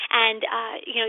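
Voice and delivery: ordinary talk, nothing marked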